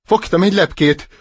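high, proud bragging; boasting. Acted. Duckling bragging about a butterfly, proud. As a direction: show off the catch. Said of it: "büszkélkedett".

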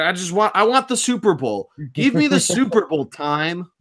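high, pleading whine; whiny. Real, not acted. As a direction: whine for the game to come. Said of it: "I'm just sounded like a whiny bitch there".

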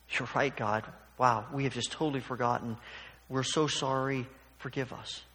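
soft, subdued mock apology; mock contrite. Imagined contrite reply to God.

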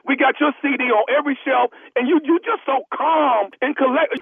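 prank caller as store clerk. Pretend. Prank caller as store clerk pressing the star to come sign, lightly voiced clerk. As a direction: play a pushy store clerk on a prank call. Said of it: "Nephew Tommy".

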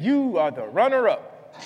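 slow, mock-deflated letter reading; anticlimactic reading. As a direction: read out the letdown slowly for a laugh. Letdown after mistaken celebration.

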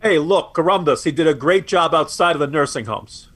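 a self-mocking, deliberately bad New York accent; bad New Yorker accent. Co-host mocking the governor's defenders in a bad New York accent. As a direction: toss off a clumsy New Yorker accent for a laugh. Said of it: "that's my very bad New Yorker, uh, accent".

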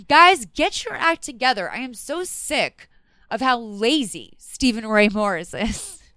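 mock scolding. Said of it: "hardest working person in show business".

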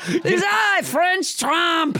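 put-on grand entrance in a French accent; French Trump. Host announces her character to co-host, mock French accent. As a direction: announce yourself in hammed-up French. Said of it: "with a French accent".

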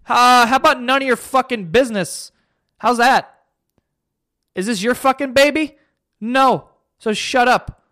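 celebrity snapping back at a nosy reporter, mock angry. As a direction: tell the paparazzo off, mock fury.

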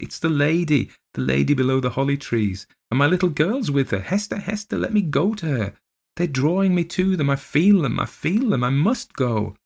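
put-on high, frantic child's cry. Little girl sees the phantom lady, high frantic cry. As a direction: call the nurse in rising panic. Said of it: "cried Miss Rosamond".

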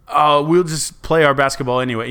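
airy, carefree mock quote; mock naive voice. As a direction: brush it off like nothing's wrong. Mocking naive people early pandemic.

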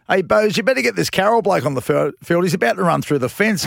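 lightly imitated urgent trainer; a hint of an urgent shout; trainer calling out. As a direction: raise the pitch, retelling a sideline call.

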